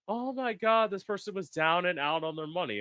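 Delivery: high-pitched feigned astonishment; mock shock. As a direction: act mildly scandalized, voice jumping up. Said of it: "the shocker of".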